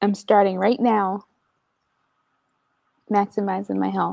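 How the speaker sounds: unenthusiastic, not too happy tone. Answering another speaker about starting to maximize health: unenthusiastic, not too happy. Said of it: "you don't sound too happy about it".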